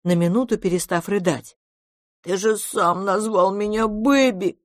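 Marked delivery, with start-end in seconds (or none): 2.2-4.6 put-on high, insistent child voice; big baby protesting; childlike monster. A narrator's reading. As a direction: remind him like a hurt little one. Monster reminds Brown, childlike.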